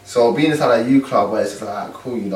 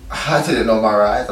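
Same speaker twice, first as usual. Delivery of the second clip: laughing. Real, not acted. Laugh heard on line.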